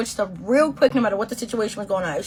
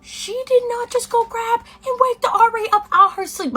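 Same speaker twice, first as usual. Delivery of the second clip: outraged disbelief; 12 semitones higher, 4 dB louder than usual. Retold or imitated.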